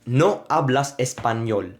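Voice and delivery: slow "No hablas español" with full, clear vowels; vowel emphasis. Shown as a demonstration. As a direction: give each vowel in "No hablas español" its weight. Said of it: "the more emphasis I put to those".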